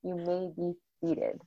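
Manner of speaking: brisk, quick courtroom announcement opening a session; court bailiff call. Retold or imitated. Former court clerk imitating the bailiff's session call. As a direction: rattle it off like a bailiff calling court to order. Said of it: "how I used to start every day".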